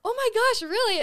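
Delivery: high, loud burst of disbelief; retold amazement. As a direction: replay your thrilled surprise at full pitch. Acts out amazed reaction to kill.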